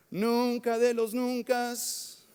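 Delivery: slow, each word stretched; drawn-out vow. Retold or imitated. Pastor mocking his own stubborn vow, slow and stretched.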